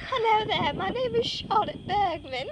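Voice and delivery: mock British introduction, softly spoken; put-on British accent. Playfully showing off a sexy accent to a friend, put-on British. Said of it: "I wish I had a British accent".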